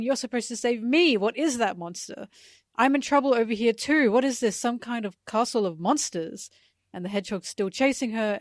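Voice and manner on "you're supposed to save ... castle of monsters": raised, louder panicked read; mock yelling. Reading Nami's lines aloud for listeners, mock yelling. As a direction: call out as if demanding rescue. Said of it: "and yelling".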